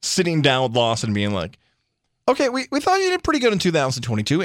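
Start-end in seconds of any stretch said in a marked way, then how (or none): 2.3-4.4 high-pitched, hesitant, hurried softening-up; mock tactful boss. Bosses sitting down with the hitting coach, mock tactful. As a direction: ease into the bad news in a higher voice.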